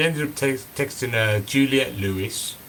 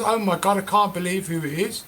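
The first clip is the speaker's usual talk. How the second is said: starstruck; 7 semitones higher than usual. Retold or imitated. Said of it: "And goes".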